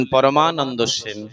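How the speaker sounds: put-on slow, shy little boy saying his name; a timid child answering the master. Boy tells his name to Gaura. (লাজুক শিশুর গলায়, ধীরে)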